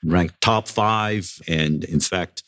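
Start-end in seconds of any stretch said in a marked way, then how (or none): 0.0-1.3 retold proud boast, pitched a little up; mildly boastful listing; bragging. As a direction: reel off achievements, leaning on each one. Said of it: "I was bragging about".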